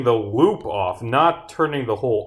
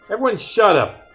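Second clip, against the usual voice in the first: tag; 9 semitones higher, 5 dB louder than usual. Acted. Acted quarrel, silencing all.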